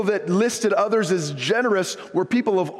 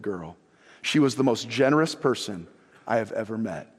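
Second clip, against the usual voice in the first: low, measured reading of a testimony; solemn letter reading; 7 semitones lower than usual. Retold or imitated. Pastor reading a church lady's email to congregation, solemn reading. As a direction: read the testimony out low, sinking at line ends.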